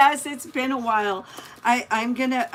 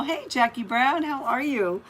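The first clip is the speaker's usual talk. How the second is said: ordinary talk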